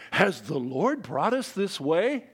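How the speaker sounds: slow, put-on pious voice, lightly done; a faithless king playing holy, slowly; mock pious king. Preacher mocks Joram's sudden fake piety, slow and pious. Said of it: "tries here to dress suddenly in piety".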